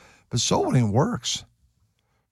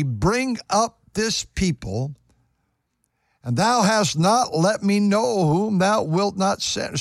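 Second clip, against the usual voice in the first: slow, raised reading of Moses' plea; scripture reading; 2 semitones higher than usual. Acted. Preacher reading Moses' plea to the congregation, slow and raised. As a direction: lift the old words in a preaching cadence.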